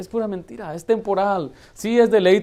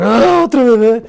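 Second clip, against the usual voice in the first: mock wailing; 7 semitones higher, 11 dB louder than usual. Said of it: "que ponen a llorar".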